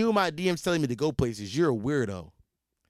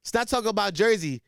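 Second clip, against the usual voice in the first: mock angry caller; 4 semitones higher than usual. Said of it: "He said".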